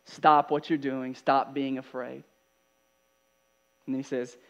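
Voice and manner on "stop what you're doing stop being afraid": slow, measured order; firm command. Acted. Jesus commanding frightened disciples to stop, firm slow order. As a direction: command it slowly and deliberately. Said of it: "He's commanding them".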